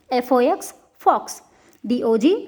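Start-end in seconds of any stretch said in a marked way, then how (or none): 1.1-1.4 "fox" with a short O; short vowel. Shown as a demonstration. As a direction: keep the O in "fox" brief. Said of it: "let us see the short vowel sound". ("fox" में छोटा ओ)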